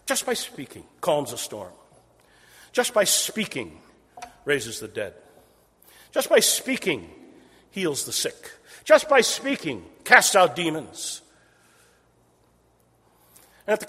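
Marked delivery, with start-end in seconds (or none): 0.1-11.2 building emphasis. Acted. Listing miracles, rising intensity.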